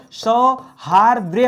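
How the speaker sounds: सौहार्द्र्य stretched out slowly; slow correct word. Shown as a demonstration. Teacher correcting spelling, slowly saying the right word. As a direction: drag out सौहार्द्र्य so students hear it. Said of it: "सौहार्द्र नहीं होता दोस्तों".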